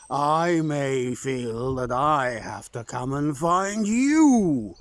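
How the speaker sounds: a menacing hint of a hidden giant; mild booming warning. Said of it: "in his booming voice".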